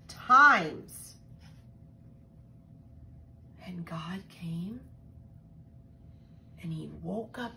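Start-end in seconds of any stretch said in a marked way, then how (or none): 3.6-7.5 hushed whisper. Real, not acted. Hushed moment of the miracle.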